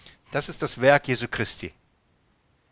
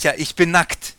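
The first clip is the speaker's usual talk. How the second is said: higher, louder confession of guilt; guilty Adam; 4 semitones higher, 6 dB louder than usual. Acted. Adam confesses his guilt to God, higher and louder. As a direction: blurt it out like a caught man. Preacher voices Adam again.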